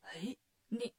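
hushed, halting double-take; stunned. A narrator's reading. Demon king sees the identical bells, stunned and faltering. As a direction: falter as if taken aback. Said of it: "赛太岁看见愣了".

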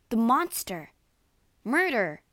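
loud, raging outburst; furious cry. A narrator's reading. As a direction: cry it out in rage. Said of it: "cried Victor, trembling with rage".

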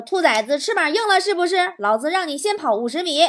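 mildly mock-angry father; hammed-up dad threat, little real anger. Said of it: "我爸爸怒了".

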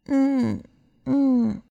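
small, drawn-out sleepy hums; soft little whimpering hum. A narrator's reading. Little bumblebee drifts off, softly whimpering. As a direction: hum softly like a drowsy baby creature. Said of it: "小博美尔轻声地哼唧着".

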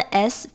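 "S" as a long hiss, not the letter name; voiceless S sound. Shown as a demonstration. Teacher showing the sound after plosives, "S" hissed. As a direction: hold a voiceless sss for "S". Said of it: "那加的S发音就是S".

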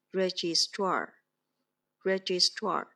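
registrar, slow with the stress on -strar; stress on the second syllable. Shown as a demonstration. Teacher modelling a new word for students, slow, stressed. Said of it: "重音在s上面".

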